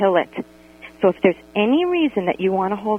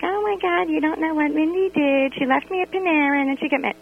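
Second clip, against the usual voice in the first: higher, breathless schoolgirl gossip; gossipy seventh grader; 7 semitones higher than usual. Retold or imitated. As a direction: spill it like a teen at recess. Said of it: "play it like I'm in seventh grade".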